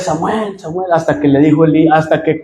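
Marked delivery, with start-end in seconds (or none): 0.0-0.9 soft call. Retold or imitated. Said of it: "Y otra vez".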